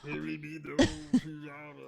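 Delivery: French accent. Shown as a demonstration. Player repeating his French character's line, French accent. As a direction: let the pirate boast fade out. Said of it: "French character".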